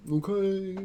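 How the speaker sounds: exaggerated slow local; imitating slow talkers. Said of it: "listening to people talk like".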